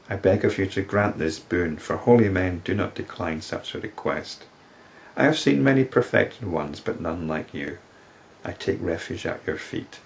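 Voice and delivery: solemn recital of the woman's plea to the sage; scripture reading. Acted. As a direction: read her words as sacred verse.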